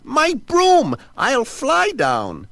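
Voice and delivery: high, loud rasping witch, slowing on the end; frantic witch calling for her broom. Acted. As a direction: cry out like a trapped old witch. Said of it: "she rasped".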